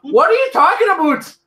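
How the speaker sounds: loud, high mock Canadian yell; laughing Canadian outburst. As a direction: jump in loud with a hammed-up Canadian accent. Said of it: "never heard you sound so Canadian".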